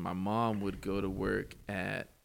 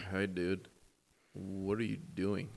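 lower, slow lazy cartoon teen; Beavis and Butthead voice; 4 semitones lower, 3 dB quieter, slower than usual. Retelling a friend's cartoon voice, lower and slow. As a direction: drag it out like a dim cartoon teen. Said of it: "doing the Beavis and Butthead voice".

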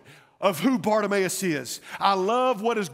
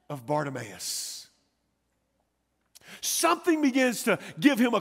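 high-pitched, emphatic sermon delivery; building pulpit fervor; impassioned preaching; 3 semitones higher than usual. Acted.

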